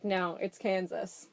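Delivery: slow, dry retold sarcasm; lightly sarcastic retort, drawn out. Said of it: "being sarcastic".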